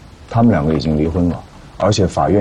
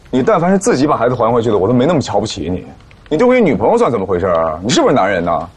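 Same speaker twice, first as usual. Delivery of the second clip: raised pitch, indignant dressing-down; scornful scolding; 4 semitones higher than usual. Acted. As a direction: scold them with open contempt. Policeman scolds the suspect.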